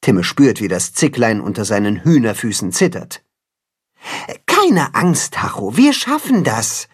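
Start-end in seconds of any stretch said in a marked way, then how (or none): 4.5-6.9 higher, gentle reassurance; calm the trembling kid; reassuring. Acted. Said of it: "beruhigt er seinen Schützling".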